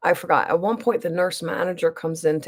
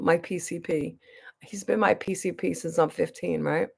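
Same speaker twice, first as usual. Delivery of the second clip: quick unvoiced whisper, softer; whispered aside; 3 semitones lower, 6 dB quieter than usual. Real, not acted. Telling the caller about her long-time doctor, whispered aside.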